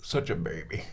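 softly whispered aside; fond whisper. Real, not acted. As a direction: breathe it tenderly. Whispered aside about cat.

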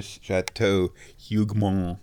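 put-on half-successful French accent; lightly attempted stuffed-up French accent. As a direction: try a French pronunciation of Hugomont. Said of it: "I can't do my French accent today".

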